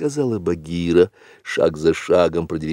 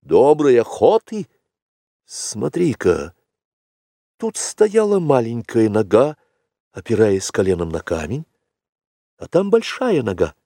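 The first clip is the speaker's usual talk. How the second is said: excited cry; 4 semitones higher than usual. A narrator's reading. Mowgli shouting that the tracks have met, excited. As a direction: cry out the find, then point out clues eagerly. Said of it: "не крикнул".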